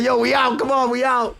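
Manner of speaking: loud, high retold call to go; urging friend. Friend calling time on the night, loud urging.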